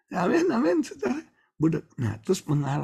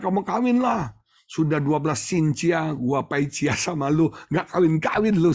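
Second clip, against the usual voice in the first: raised pushy urging; urging brother-in-law; 4 semitones higher than usual. Retold or imitated. Preacher nagging his single brother-in-law to marry, raised voice. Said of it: "Saya bilang".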